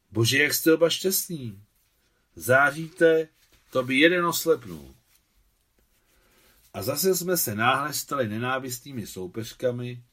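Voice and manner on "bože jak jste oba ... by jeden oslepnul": louder, higher, exclaiming in admiration; delighted exclamation. A narrator's reading. Tatiana Sergejevna exclaims at the happy couple, delighted. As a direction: marvel out loud at the happy pair.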